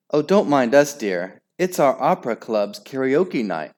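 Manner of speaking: lightly trilling mother; a touch of a sing-song hostess; trilled. Acted. Nick's mother welcoming Henry, lightly trilling. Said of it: "trilled the Viking helmet".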